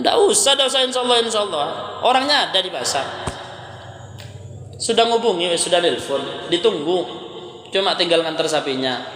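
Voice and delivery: high, pushy refusal of the reminder; insistent refusal. Retold or imitated. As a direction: stubbornly wave the ustaz off, voice up high. Seller refuses, more insistent. (pedagang menolak dengan nada tinggi dan ngotot)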